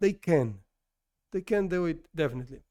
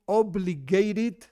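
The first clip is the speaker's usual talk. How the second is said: "obligated" drawn out and emphatic; stress on obligated; much slower than usual. Shown as a demonstration. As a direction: lean slowly on the word "obligated". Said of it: "stress this word".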